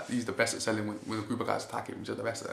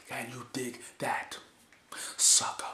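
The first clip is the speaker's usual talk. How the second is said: slow breathy build then punched sucker; a touch of hammed-up announcer swagger; Booker T catchphrase; 2 semitones higher, slower than usual. Imitating Booker T's catchphrase.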